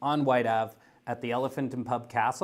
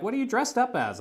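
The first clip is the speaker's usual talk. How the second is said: much higher mock friend voice asking; imitating a friend's baffled question at the pub; puzzled friends; 11 semitones higher than usual. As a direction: pitch it way up like a confused friend. Friends asking about his costume.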